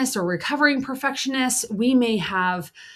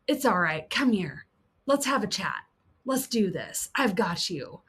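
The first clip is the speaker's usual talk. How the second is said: gentle reassurance; 4 dB quieter than usual. Acted. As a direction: hold them and settle them. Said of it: "is going".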